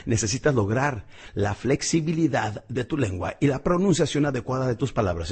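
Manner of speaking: ordinary delivery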